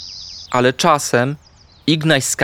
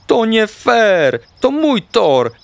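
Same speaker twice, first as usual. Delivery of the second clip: high, indignant protest; angry shout; 9 semitones higher, 4 dB louder, much slower than usual. A narrator's reading. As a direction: shout it like a furious sore loser. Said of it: "krzyknął". (gniewny, wysoki krzyk)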